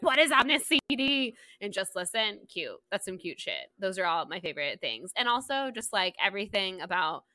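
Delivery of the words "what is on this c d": higher-pitched imitation of yelling; mild mock yell. Host quoting Annabelle at Owen, mild mock yell. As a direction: retell the yell without full volume. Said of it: "like, yelling at Owen".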